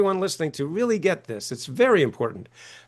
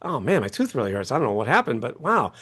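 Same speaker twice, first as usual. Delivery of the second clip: pained groan; 4 semitones lower than usual. Retold or imitated. Retelling a toothache to the host, lower mock moan. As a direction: sink into a sorry little toothache groan. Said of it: "You're like".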